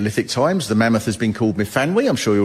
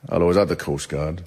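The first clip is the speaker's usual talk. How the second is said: deadpan calm; 5 semitones lower than usual. Retold or imitated. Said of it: "I can imagine 'em going".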